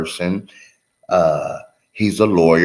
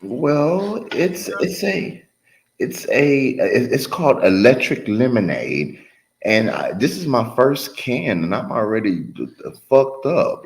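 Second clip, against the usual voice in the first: loose, tipsy rambling; 4 semitones higher than usual. Real, not acted. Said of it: "I'm a little tipsy right now".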